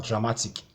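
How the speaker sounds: "dramatic" with MA punched; stress on MA. Shown as a demonstration. Teacher showing the I C rule, stress on MA. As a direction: stress the middle syllable, MA, in "dramatic". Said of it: "So you have to stress ma".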